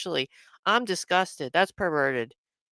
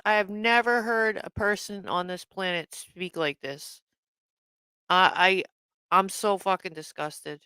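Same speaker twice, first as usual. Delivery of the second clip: ordinary talk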